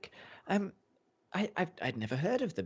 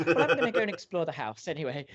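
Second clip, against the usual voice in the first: huffy lady; 7 semitones higher, 7 dB louder, faster than usual. Acted.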